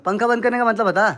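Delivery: loud, angry demand for an answer. Real, not acted. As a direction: bark the question at him. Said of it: "गुस्सा आ रहा मेरे को". (गुस्से में जवाब माँगना)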